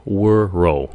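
World in two beats, wer-rol; rolled-through R. Shown as a demonstration. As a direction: roll from r into l in "World". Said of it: "roll đi".

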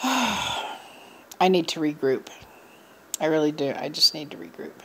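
winding down after the anger; weary and deflated. Real, not acted. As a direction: sigh it out, drained. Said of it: "I'm angry".

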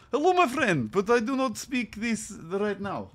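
playful put-on Russian accent; Russian accent, slowing toward the end. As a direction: greet them as a mock Russian. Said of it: "I can stop the Russian".

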